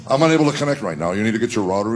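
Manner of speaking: fast, even machine voice reading an error; fast mock robot voice; Alexa's robotic voice. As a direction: rattle it off like a smart speaker. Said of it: "she starts this mantra".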